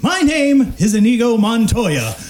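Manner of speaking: booming drawn-out announcer call, PREPARE and TO DIE sung out high; a ring announcer roaring the Princess Bride line; ring announcer Inigo Montoya. Acted. Game host doing an announcer impression for the guessing players, booming and sung out. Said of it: "could you do it again, please?".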